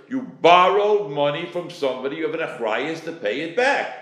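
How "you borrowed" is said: "borrowed" given firm extra weight; stress on borrowed. Shown as a demonstration. Teacher explaining repayment, "borrowed" stressed. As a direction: punch the word "borrowed". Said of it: "stressing the word".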